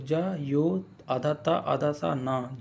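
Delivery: slow letter-by-letter spelling. Shown as a demonstration. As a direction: break ज्योत्सना into its letters slowly. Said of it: "यानी इस तरह से लिखते हो".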